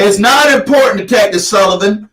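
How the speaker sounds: yelling over her; shouting her down; heated family shouting. Real, not acted. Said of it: "Please stop yelling at me".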